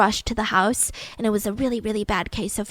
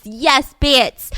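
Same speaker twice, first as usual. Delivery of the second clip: cheering; 6 dB louder than usual. Retold or imitated. Mother-in-law cheering Nanny on.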